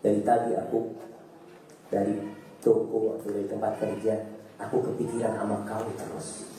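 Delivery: husband sweet-talking his wife before giving advice; gentle husband. Retold or imitated. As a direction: coax her gently, lovingly. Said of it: "Tapi kalau katakan".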